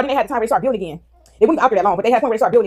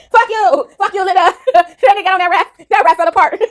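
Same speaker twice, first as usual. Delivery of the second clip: high, laughing mock yell; helpless with laughter, voice pitched way up; cracking up; 9 semitones higher, 4 dB louder, slower than usual. Real, not acted. Viewer retells the raft falling apart, really cracking up.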